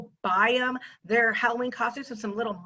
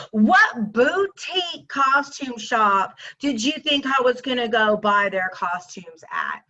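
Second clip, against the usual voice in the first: slow, sarcastic, drawn out. Real, not acted. Answering the man's jab, slow and sarcastic. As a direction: lay the sarcasm on slowly.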